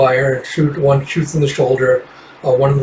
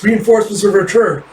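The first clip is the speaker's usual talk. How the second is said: called out; 7 semitones higher than usual. Acted. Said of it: "Jeff screams to the forest".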